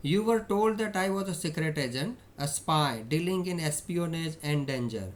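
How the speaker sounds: slow, emphatic read-aloud; reading story dialogue. A narrator's reading. Teacher reads Ausable's words to students, deliberate reading. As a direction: read the quote out slowly and firmly.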